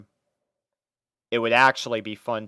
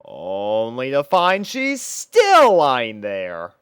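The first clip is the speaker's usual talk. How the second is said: exasperated disbelief; 7 dB louder, slower than usual. A narrator's reading. Disbelief, she is still there.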